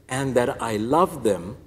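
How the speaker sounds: slow, tender declaration of love; loving. Retold or imitated. Our Lady telling her children she loves them, slow and loving. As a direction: draw it out like a hug. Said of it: "it's like she hugged my soul".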